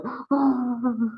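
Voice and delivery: high, drawn-out imitation of quiet crying; mock crying gasp. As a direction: imitate someone crying quietly on one long high breath. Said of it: "She's crying quietly".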